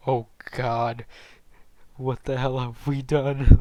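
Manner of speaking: loud, dismayed gasp; horrified shock. Retold or imitated. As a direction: yell it in disbelief. Horrified at what they hear.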